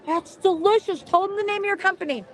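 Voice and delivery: talking with a mouthful of steak; chewing while speaking. Real, not acted. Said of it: "I'm eating with the top of my mouth".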